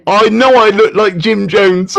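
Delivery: said through a laugh at himself. Real, not acted. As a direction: laugh it out, self-mocking. Laughs at his own looks.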